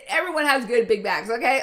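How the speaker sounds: loud, high, half-crying with laughter; laughing declaration. Real, not acted. Coach reassuring listeners through laughter, loud.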